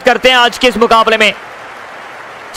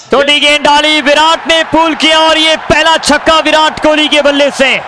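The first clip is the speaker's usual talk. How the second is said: excited commentary; 4 semitones higher than usual. Real, not acted. Six hit, commentator shouts.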